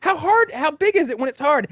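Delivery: mock disgusted hosts. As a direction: tease him in mock disbelief. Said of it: "they're like".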